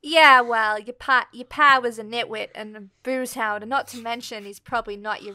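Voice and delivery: bad American accent. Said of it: "Put on your worst American accent".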